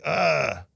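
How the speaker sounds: retold uneasy "ugh"; drawn-out groan imitating past unease; anxious groan. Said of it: "kind of a sense of anxiety".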